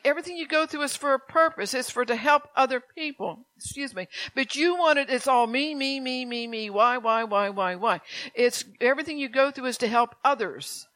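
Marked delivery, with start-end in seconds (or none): 4.3-8.0 mock selfish whine; lightly mock a self-pitying complainer; a touch of a whining me-me voice; whiny me me me.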